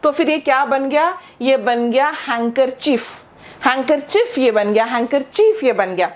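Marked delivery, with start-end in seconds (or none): 2.2-3.1 "हैंकरचीफ" with no D sound; silent D. Shown as a demonstration. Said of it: "इसका कोई भी sound नहीं है". 3.7-4.4 "हैंकरचीफ" with no D sound; silent D. Shown as a demonstration. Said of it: "ये इसकी pronunciation है". 4.8-5.6 "हैंकरचीफ" with no D sound; silent D. Shown as a demonstration. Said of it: "ये इसकी प्रोनाउंसिएशन है".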